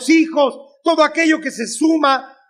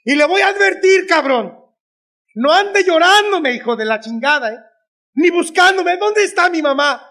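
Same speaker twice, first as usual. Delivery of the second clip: lightly acted motherly warning, raised pitch; madre que advierte; 4 semitones higher than usual. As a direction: warn the son like a stern mother. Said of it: "y me dijo". (advertencia de madre, levemente actuada)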